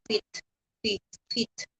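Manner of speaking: "fit" for "faith"; mispronounced "faith"; old wrong faith. Shown as a demonstration. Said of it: "faith, sabi ko".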